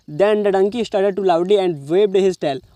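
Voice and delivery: slow, even English reading; slow reading aloud. Shown as a demonstration. Teacher rereading the full sentence slowly to students. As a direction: lay each word out carefully.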